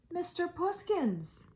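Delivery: gasped out high and slow; Emily catching the cat at the piano, shocked. Acted. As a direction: catch your breath in shock. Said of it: "she gasped".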